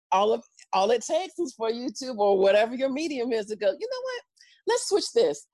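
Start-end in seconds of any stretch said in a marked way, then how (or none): 3.7-5.4 offhand mock authority. Voicing YouTube or president.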